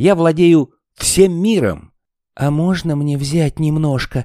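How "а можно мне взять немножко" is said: trembling voice. Reading a story aloud, the narrator voices Sniff asking Snufkin something: trembling. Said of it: "задрожав, спросил Сниф".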